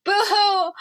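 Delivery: fake crying. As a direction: imitate a whiny crybaby. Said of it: "we got this mofo Harry coming out here".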